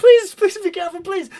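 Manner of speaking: very high, very loud, shrill screaming. Voicing people in a dark room fleeing gunfire: screaming plea. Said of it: "You hear more scream".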